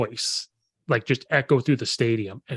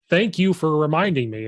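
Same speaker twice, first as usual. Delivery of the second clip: higher, sarcastic thanks; mock sarcastic; 4 semitones higher than usual. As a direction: thank a heckler with fake gratitude. Sarcastic thanks to shouting fans.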